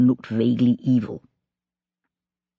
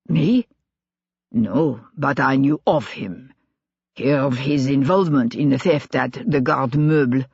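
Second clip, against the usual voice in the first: put-on light German accent, tense and strained; a Brunswick officer, rattled, his German accent thickening; 2 semitones lower than usual. Colonel denying knowing Collot to Sebastian, strained German accent. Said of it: "The man's voice was strained, his accent more pronounced than usual".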